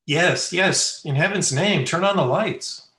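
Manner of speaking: high, loud, frantic demand; urgent shout. Acted. Young man demands lights after a scream, urgent shouting. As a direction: shout for help in a panic.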